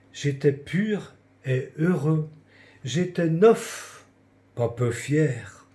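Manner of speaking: measured reading of a poem, line by line; poem recitation. Acted. Reading a childhood confession poem to confined friends, recited. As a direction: recite verse with pauses after each phrase. Reads own poem aloud.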